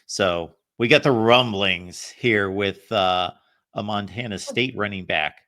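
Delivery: half-joking rumbly segment-opener voice; bass voice. Shown as a demonstration. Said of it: "if I've got my bass voice with me today".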